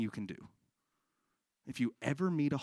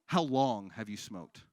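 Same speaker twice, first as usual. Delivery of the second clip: slow repeat; 3 semitones lower, slower than usual. Real, not acted. Repeated slowly for audience member.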